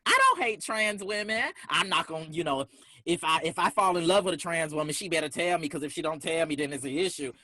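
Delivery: high-pitched mocking denial; defensive mock quote. Speaker mimicking people who deny their transphobia, high and defensive. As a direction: mimic someone protesting too much, voice squeaking up. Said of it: "they're like".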